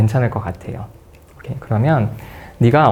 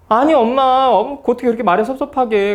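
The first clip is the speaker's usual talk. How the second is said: much higher whiny hurt complaint; imitating a wounded daughter; 12 semitones higher than usual. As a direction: sound let down by mom. Daughter tells mom she's hurt.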